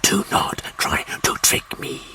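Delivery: slow, hissed, menacing whisper; whispering Martian warlord. Acted. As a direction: breathe the demand like a cold threat.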